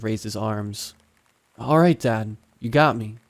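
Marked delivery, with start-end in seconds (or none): 1.6-3.2 said loudly. Acted. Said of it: "he said loudly".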